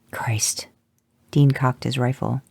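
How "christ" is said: soft whispered curse; under breath. A narrator's reading. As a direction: breathe it out in disbelief. Dean mutters under breath.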